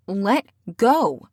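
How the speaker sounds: loud, sharp command; sharp shout. Acted. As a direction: bark it out. She pulls his arm away.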